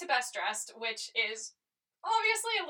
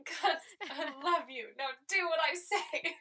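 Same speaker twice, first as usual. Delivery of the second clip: laughing requote; 4 semitones higher, slower than usual. Retold or imitated.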